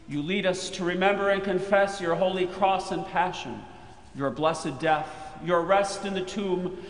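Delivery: normal talking voice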